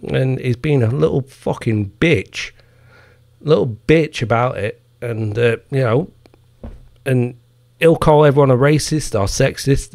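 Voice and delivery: ordinary talk, nothing marked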